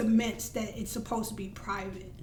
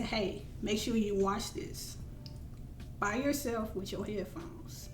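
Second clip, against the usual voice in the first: softer, slow pointed request; hushed instruction; 3 semitones lower, 9 dB quieter, slower than usual. Retold or imitated. To her partner about the video, hushed slow instruction. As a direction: make it sound private.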